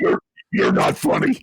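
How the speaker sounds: high, whispered spooky voice; scary voice. Retold or imitated. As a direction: hiss it like a creepy child. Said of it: "she uses the scary voice first".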